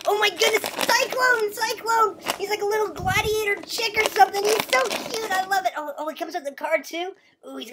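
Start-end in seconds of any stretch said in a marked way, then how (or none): 0.1-5.3 higher-pitched delight; thrilled little discovery; excited. Real, not acted. Kid finding a chick toy in a grab bag, excited.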